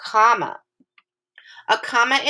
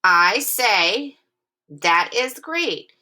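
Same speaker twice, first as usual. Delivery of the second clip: excited; much slower than usual. Shown as a demonstration. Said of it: "the tone of my voice".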